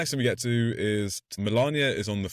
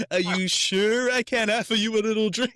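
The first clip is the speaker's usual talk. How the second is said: much higher, oily creep voice; creepy offer; 12 semitones higher, 4 dB louder than usual. Retold or imitated. Husband creeping toward wife with drinks, hammed-up high creep voice. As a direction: lay on the creepy husband's insistence. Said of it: "that's the creepiest thing".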